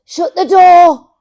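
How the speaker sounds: loud, slow high shout; sleep talking. Retold or imitated. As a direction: yell it slowly, half asleep. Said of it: "you said".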